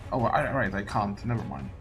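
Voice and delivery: ordinary delivery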